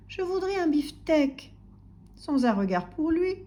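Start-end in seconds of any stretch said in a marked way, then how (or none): 0.1-1.5 slow, high, careful little voice; Monsieur Silence. A narrator's reading. Ignored customer repeating to butcher, meek. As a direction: repeat the order meekly, spelled out slowly. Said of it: "répétait Monsieur Silence".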